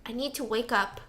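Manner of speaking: quiet, hurried mumble of a worn-out man; softly voiced plea to himself; hushed desperate plea. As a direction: mutter it as if not to wake anyone. Husband retold, desperate at night.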